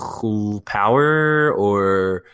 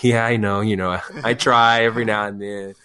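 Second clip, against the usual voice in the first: smug; 3 dB louder than usual. Retold or imitated. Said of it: "smugly sitting there".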